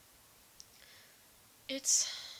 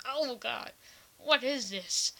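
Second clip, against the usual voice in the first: shocked; 3 semitones higher, 12 dB louder, much slower than usual. Retold or imitated. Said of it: "I was like".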